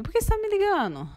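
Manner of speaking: high, fast mock of her husband's irritation. Wife mimicking her husband's irritated phone reply, high and fast. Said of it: "E ele falava assim pra mim".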